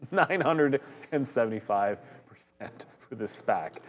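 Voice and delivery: laughing through the words; can barely get it out for laughing. Real, not acted. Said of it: "I can't even say that without laughing".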